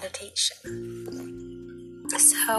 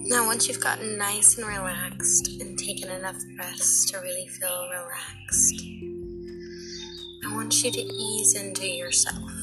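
guided meditation. Acted. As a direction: guide them gently into relaxation.

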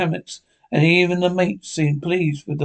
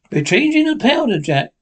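sailor's reply; 7 semitones higher than usual. A narrator's reading. Sailor answers Silver.

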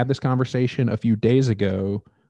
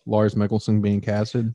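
slower repeat of Lars Mikkelsen being casted; clearer repeat; slower than usual. Shown as a demonstration. Co-host repeating himself after "Do what?", slower and clearer. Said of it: "Do what?".

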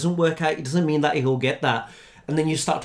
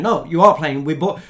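mildly acted parent laying down the law; louder, firm mock-parent rebuke; insistent parent; 5 dB louder than usual. Parents overruling their reluctant kids, insistent.

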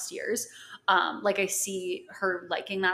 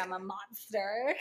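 monster voice; 5 dB quieter, slower than usual. Retold or imitated. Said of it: "Why are you talking like a pirate?".

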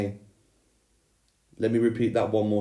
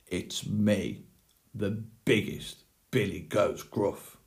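understated gruff goat, held back in volume; lightly voiced big gruff goat; bellowing big goat; 5 dB quieter than usual. A narrator's reading. Eldest goat answering the troll, understated bellow. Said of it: "he bellowed".

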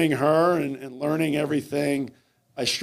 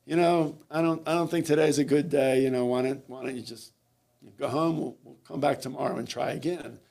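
calm, measured suggestion. Retold or imitated. Coach sending swimmer home from training camp, very calmly. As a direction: calmly let the athlete off. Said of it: "And I very calmly said".

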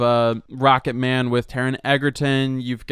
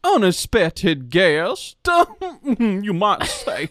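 slow, drawn-out Southern hick twang; hick Southern accent; 2 semitones higher, slower than usual. Acted. Host introducing the producer in a slow hick drawl. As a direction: stretch it out like a country showman. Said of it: "really, really hick".

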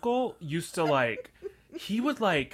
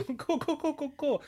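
sarcastic; 13 semitones higher than usual. Retold or imitated. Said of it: "And I'm like".

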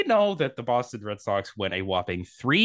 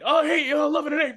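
higher, louder mocking whine; mocking Yankees fans; 4 dB louder than usual. Co-host mimicking Yankees fans online, mocking tone. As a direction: taunt like a smug fan. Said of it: "everybody went".

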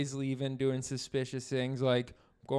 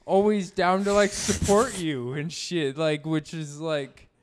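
heated, halting insistence; getting angry; 3 semitones higher, 7 dB louder than usual. Acted. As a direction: keep pressing, a little worked up. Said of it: "are you getting angry?".

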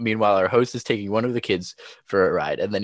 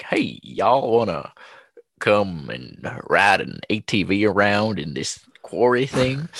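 hick drawl; slower than usual. Retold or imitated. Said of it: "he didn't talk like that".

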